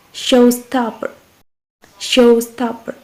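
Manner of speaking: "showstopper" with SHOW stressed; stress on first syllable. Shown as a demonstration. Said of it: "same as the example of two syllables".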